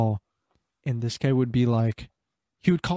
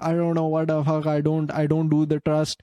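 mild mock rant in broken English; drunk caller, broken English. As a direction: lightly mimic an angry drunk client with poor English. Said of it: "With, like, shit English".

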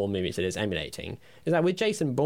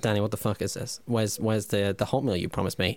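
rising, indignant complaint about the hot meal; hammed-up grievance to his co-host; mock outrage; 2 semitones higher than usual. Skit angry co-host.

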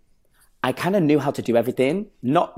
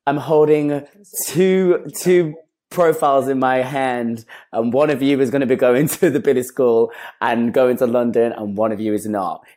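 America's Next Top Model host; 2 semitones higher, 5 dB louder than usual. Retold or imitated. Judge telling two boys who goes to London, mock-dramatic announcer. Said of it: "America's Next Top Model".

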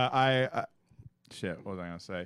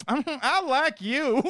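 flirty staff; 11 semitones higher, much slower than usual. Retold or imitated. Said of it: "they'd be like".

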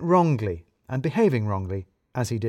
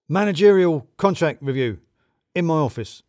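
higher, hurried boss voice, a bit awkward; manager Balls; 4 semitones higher, 6 dB louder than usual. A narrator's reading. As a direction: voice the nervous manager. Boss summons Radu.

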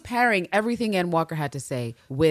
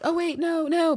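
flustered plea; 3 dB louder, slower than usual. Acted. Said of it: "Ann Walker is like".

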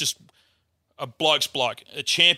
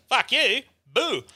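retold angry outburst; 10 semitones higher, much slower than usual. Retold attacker swearing, then poking.

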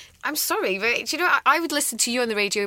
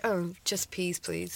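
meek small voice; 8 dB quieter, much slower than usual. Retold or imitated. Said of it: "You're like".

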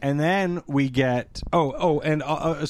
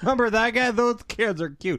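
high, gushing mock-fan squeal; nostalgic viewer; 7 semitones higher than usual. Mocking nostalgia viewers reminiscing, gushing mock-fan voice. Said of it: "sit there for a half an hour and go".

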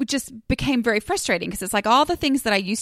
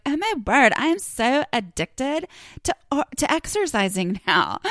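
excited gushing; 5 semitones higher than usual. Retold or imitated. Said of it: "They're like".

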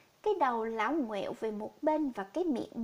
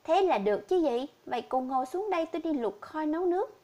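cheerful; 3 semitones higher, 4 dB louder than usual. Acted. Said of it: "Tôi vui vẻ bảo".

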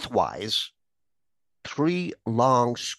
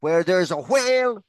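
Irish philosopher voice; 5 semitones higher than usual. Retold or imitated. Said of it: "quote that great Irish philosopher".

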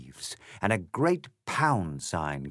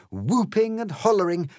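whooping and hollering; 11 semitones higher, 5 dB louder than usual. A narrator's reading. Horde charging out of trees.

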